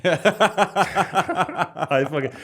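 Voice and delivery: put-on high, loud laddish British accent with laughter. Host asks for the accent, he obliges with a cheeky British lad voice. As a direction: ham up a cheeky English lad on request. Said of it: "Can you do the rest of the podcast in that accent?".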